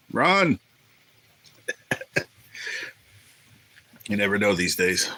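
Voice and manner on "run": high, punched one-word yell; comic high-pitched warning cry; mock urgent warning. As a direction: playfully yell it like an alarm. Mock warning to flee the table.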